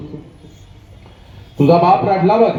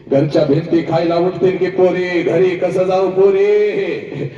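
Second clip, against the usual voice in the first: mother's wailing lament. Retold or imitated. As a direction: stretch each पोरी like a grieving mother's wail. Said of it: "तुझी आई हंबरडा फोडते".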